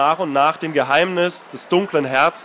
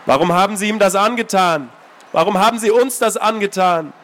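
put-on accusing girl; 3 semitones higher than usual. Anna confronting the old man, reproachful. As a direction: accuse him, hurt.

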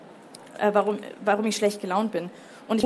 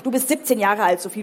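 loud, emphatic telling-off; mildly angry parental lecture; scolding father; 4 dB louder than usual. Acted. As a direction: remind a teenager firmly of their age. Father scolds daughter in quarrel.

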